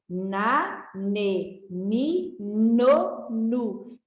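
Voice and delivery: each syllable said clearly apart; syllable drill. Shown as a demonstration. Teacher drills pupils on the N syllables, clearly. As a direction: sound out na ne ni no nu for children. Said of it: "Vamos de novo?".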